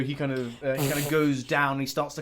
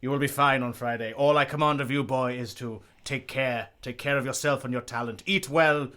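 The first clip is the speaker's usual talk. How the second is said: grand ballet master; 3 dB louder than usual. Acted. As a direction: bless your star pupil. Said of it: "He's like".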